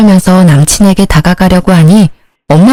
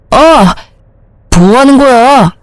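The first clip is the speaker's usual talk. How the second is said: startled yelp; 5 semitones higher, slower than usual. Acted. Slapped boyfriend cries out.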